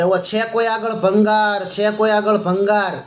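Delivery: slow, drawn-out hawker's cry, lightly voiced; a mild mock call up to the balconies, stretched slowly; scrap dealer's street call. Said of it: "બૂમા બૂમ કરે". (ભંગારવાળાની ધીમી, લાંબી ખેંચેલી હળવી બૂમ)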